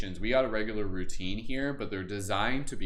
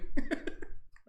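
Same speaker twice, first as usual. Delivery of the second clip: breathy animal laugh. Shown as a demonstration. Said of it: "it's just like a wild animal".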